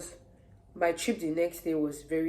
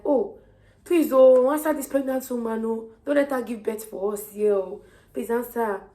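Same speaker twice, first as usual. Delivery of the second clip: high, loud mock begging; pleading man; 6 semitones higher, 8 dB louder than usual. A kind man begging staff to see the pregnant woman, high loud plea. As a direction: beg the staff on her behalf.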